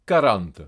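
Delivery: "Quarante" said karante, without W. Shown as a demonstration. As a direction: say "Quarante" with a bare K. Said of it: "Q U prononcé que". (« Quarante » avec un simple K)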